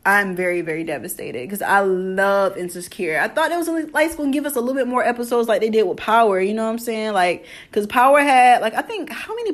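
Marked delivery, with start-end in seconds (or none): 0.0-3.2 sad voice. Pretend. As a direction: play up the sadness, half-joking. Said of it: "in my sad voice".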